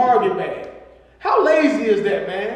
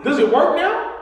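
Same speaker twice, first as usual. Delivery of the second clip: retold sarcasm; 6 semitones higher than usual. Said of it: "Not "good job".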